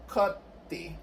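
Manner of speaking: "coti" with the first syllable stressed. Shown as a demonstration. Linguist shows the derived form, first syllable of "coti" stressed. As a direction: hit the start of "coti", then a lighter "ti". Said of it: "acento en la primera sílaba".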